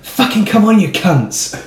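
high-pitched mock football shout; imitated fan cheer. Imitating a lad when England scored, mock celebratory yell. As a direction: cheer like a rowdy pub fan, voice shooting up.

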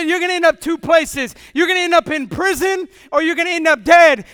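loud, hammered warning of prison or death; preaching shout, full force; librarian's warning shouted. Retold or imitated.

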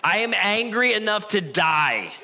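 slow, high, hammed-up huff through a laugh; mock angry Jonah. Jonah answering God in a mock angry huff. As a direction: play a sulking prophet for laughs.

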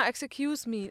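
"Excuse me" with an extra vowel, "ex-e-cuse me"; inserted vowel. Retold or imitated. Giving an English learner slip, "Excuse me" with added vowel. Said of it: "dass das immer so eingebaut wird".

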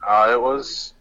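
phone call sound; on speakerphone. Real, not acted. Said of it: "That's why I sounded like speakerphone".

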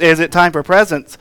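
"time" stressed, falling at the end; shifted emphasis. Retold or imitated. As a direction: land on "time", then let it drop. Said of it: "The emphasis on the syllable will make it work".

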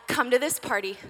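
an upbeat call to celebrate; eager invitation. Pretend. Mother phoning friends to celebrate, eager and upbeat. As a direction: invite them in a bright rush.

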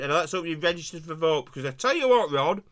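talking with a mouthful of bun; mouth full. Real, not acted. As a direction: talk through a mouthful of food. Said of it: "I've got a mouthful of Belgian bum".

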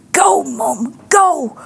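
put-on high child-like cheering call; daughter's voice calling out. Daughter to preaching mum in church, high urging call. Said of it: "I hear this voice".

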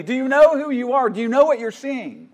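a revival preacher gripping someone's shoulders; urgent preacher's plea. Retold or imitated. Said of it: "Or D L Moody".

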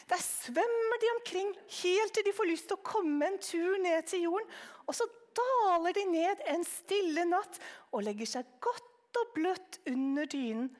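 put-on old aunt telling the boy a sugary baby tale; aunt's made-up voice. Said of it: "gjorde stemmen nesten helt alminnelig".

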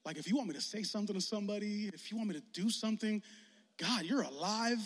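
soft, quiet prayer before school; hushed prayer. Retold or imitated. Youth pastor voicing a student's morning prayer, hushed. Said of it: "prayed something like this".

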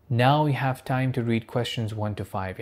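slow, deliberate test recording voice; mock exam announcer. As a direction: read it like the IELTS announcer, very slow. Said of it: "الوقت اللي يقول لك".

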